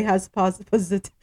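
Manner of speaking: stumbling over the word and breaking off; tongue-twisted. Real, not acted. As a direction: trip on the word mid-read. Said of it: "I'm tongue twisted".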